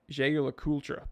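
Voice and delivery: Jaeger LeCoultre with plain American r's; American pronunciation. Shown as a demonstration. Streamer showing the take that offends snobs, American pronunciation. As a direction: say Jaeger LeCoultre as an American would, cool-truh.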